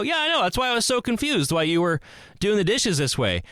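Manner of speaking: amused agreement. Retold or imitated. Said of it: "I go".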